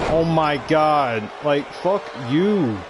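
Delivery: slow, drawn-out exasperation; fed up. Real, not acted. Gamer cursing at the game, fed up. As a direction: stretch every word out in frustration. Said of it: "They're pissing me off".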